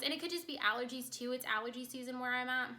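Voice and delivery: stuffy nose voice; congested. Real, not acted. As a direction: sound blocked up, nasal from pollen. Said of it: "which is why I sound so congested right now".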